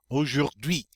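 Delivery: AUJOURD'HUI with O, oo and French R; silent H. Shown as a demonstration. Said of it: "the H is silent".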